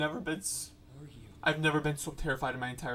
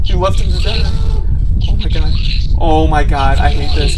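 terrified yelling; 19 dB louder than usual. Real, not acted. Horror climax, scared player.

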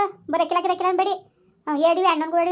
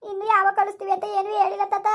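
high, weepy answer; tearful; 4 semitones higher than usual. Acted. Granddaughter answering grandfather about discharge, tearful. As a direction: answer on the edge of tears. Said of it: "ಅಳ್ಬೇಡ ಮಗಳೇ".

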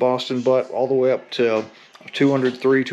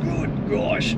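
breathless exclamation; 4 dB quieter than usual. Real, not acted. After full emergency stop.

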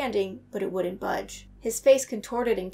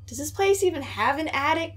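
shout; 5 semitones higher than usual. A narrator's reading. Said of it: "Chris shouted".

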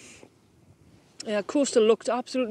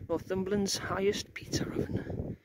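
quiet; 7 dB quieter than usual. Real, not acted. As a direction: say "Northumberland's highest pizza oven" softly, offhand. Repeats sign-off line quietly.

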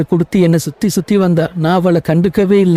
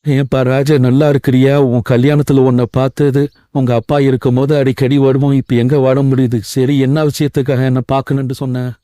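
lower-pitched, genial lawyer role; family lawyer; 5 semitones lower than usual. Acted. Lawyer greeting his late client's son Raja, lower-voiced role. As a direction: play the family lawyer a little deeper.

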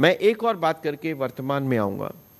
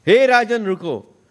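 louder, higher plea to the king; tormented souls beg the passing king to stop, a louder plea; pleading call; 4 semitones higher, 5 dB louder than usual. Retold or imitated. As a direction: call up from below, begging him to stop. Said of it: "नीचे से त्राही त्राही की आवाजें".

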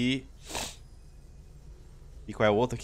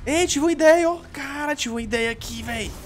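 excited; 10 semitones higher, slower than usual. Real, not acted. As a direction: blurt it out, all fired up. Sudden idea mid-fight.

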